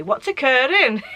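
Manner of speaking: put-on light Welsh accent, rising then falling. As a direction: quote it in a sing-song Welsh accent. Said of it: "in, like, a Welsh accent".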